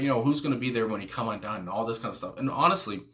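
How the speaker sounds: slightly out of breath; talking while short of breath. Real, not acted. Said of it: "I don't know why I'm out of breath".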